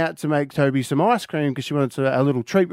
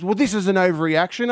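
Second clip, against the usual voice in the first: mild protest; 5 semitones higher than usual. Retold or imitated. Daughter's verdict in retold row.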